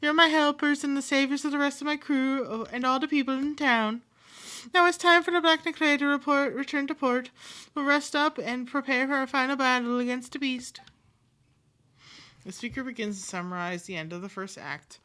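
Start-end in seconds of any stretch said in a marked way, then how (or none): 0.0-10.8 loud, high, booming pirate captain; rally the crew like a proud captain; hearty pirate captain. Acted. Captain loudly praises new sailors as core crew, booming pirate voice.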